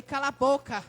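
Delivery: loud, forceful order; mock commanding shout. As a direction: bellow it like someone in authority. Man of authority ordering silence.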